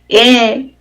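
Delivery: "e, so, ti, co" with a gap after each; syllable by syllable. Shown as a demonstration. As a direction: sound out "e, so, ti, co" in separate beats. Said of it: "solo e".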